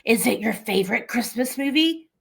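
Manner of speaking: creepy whispered caller; Ghostface voice. Pretend. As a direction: whisper it like a horror-movie caller. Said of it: "I'll read it in Ghostface voice".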